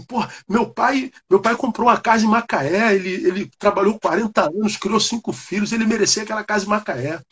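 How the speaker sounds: hurt son arguing hotly with the stranger; retold angry protest. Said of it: "Aí eu levantei com raiva".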